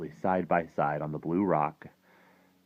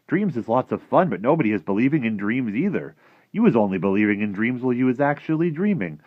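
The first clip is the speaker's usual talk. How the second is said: high, loud giant lecturing; emphatic, raised giant's voice; friendly giant, dismissive; 7 semitones higher, 11 dB louder than usual. Acted. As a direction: play the giant scoffing at the plan.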